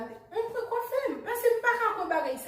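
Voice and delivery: high, laughing through the words. Real, not acted. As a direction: crack up mid-line. Breaking into laughter about the camera.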